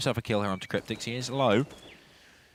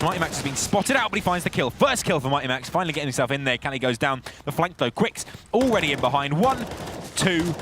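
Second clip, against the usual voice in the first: esports caster; 4 semitones higher, 4 dB louder than usual. Real, not acted. Fast live call of the round.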